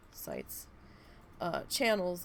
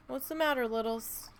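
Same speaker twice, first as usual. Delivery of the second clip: pet talk; 4 semitones higher than usual. Real, not acted. Talking to her cat.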